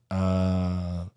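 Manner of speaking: Alabama accent faked badly, rising high and slow; a Brit's clumsy Alabama drawl. An English person mocking Alabama, rising high bad Alabama accent. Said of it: "an English person doing an Alabama accent".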